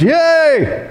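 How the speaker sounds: high squealed yay; excited cheer. Retold or imitated. Abraham cheering at the promise of land, squealed yay. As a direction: cheer like a delighted child.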